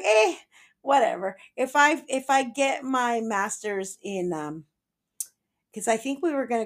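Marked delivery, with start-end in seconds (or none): 0.0-4.6 mock nonchalant. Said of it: "she was so whatever about it".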